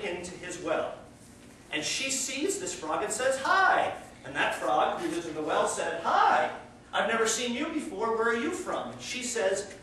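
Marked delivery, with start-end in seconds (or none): 3.4-3.9 high, loud "hi" swooping up; a frog's eager, high-pitched hello; bright greeting. Acted. Sea frog greets the frog in the well, bright greeting. 6.0-8.9 friendly greeting. Acted. Well frog meets a newcomer, friendly curious greeting.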